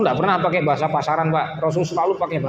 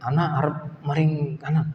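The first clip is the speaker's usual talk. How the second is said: mock ngapak Arabic mix. Shown as a demonstration. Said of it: "lanjutannya nanti ngapak".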